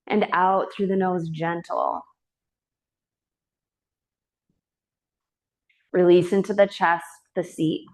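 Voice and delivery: calm, unhurried yoga teacher voice with long pauses; even, measured breath-awareness cueing; guided meditation. Real, not acted. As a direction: gently guide them into the breath. Guides breath in resting pose.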